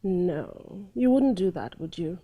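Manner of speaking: low, soft, numb denial; stunned disbelief. Shown as a demonstration. Teacher showing how a betrayed wife really reacts, soft stunned denial. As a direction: barely say it, refusing to believe. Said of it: "as a normal human being".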